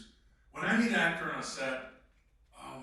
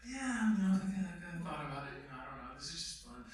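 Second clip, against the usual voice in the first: noncommittal hedging; faster than usual. Retold or imitated. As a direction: shrug it off, trailing away. Acting out noncommittal actor.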